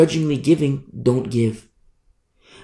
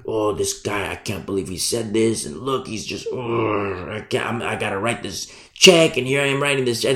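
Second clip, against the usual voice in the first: soft, sulky grumble of a reluctant giver; grudging giver mutter; 3 semitones lower, 4 dB quieter than usual. Retold or imitated. Congregant complaining about tithing, soft sulky grumble. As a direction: grumble it under your breath.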